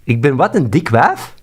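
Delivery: loud, incredulous question; indignant shock; indignant disbelief. Real, not acted. Outraged at insult.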